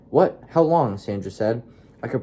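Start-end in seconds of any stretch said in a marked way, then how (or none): 0.1-1.0 high, loud shocked outburst. Acted. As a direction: blurt it out in disbelief. Shocked daughter at news.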